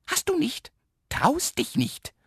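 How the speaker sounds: very high, drawn-out teasing call; cocky taunting. A narrator's reading. Little man dares the boy, cocky taunting. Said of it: "ruft der kleine Herr Ich nicht übermütig".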